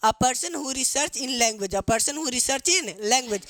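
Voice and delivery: very slow, each word apart; slow dictation. Shown as a demonstration. Teacher dictating the heading to pupils, very slowly. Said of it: "linguist कौन होता है बाबू?".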